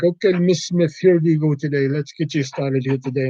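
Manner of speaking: lightly put-on Indian-accented cashier; polite, caricatured Indian accent. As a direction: serve the customer in a mock Indian accent. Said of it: "generic Indian character".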